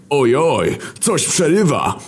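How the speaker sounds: high fake-alarmed cry; sudden cry. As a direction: fake a breaking line to escape the call. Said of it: "krzyknął nagle Wojna". (wysoki, udawanie zaniepokojony okrzyk)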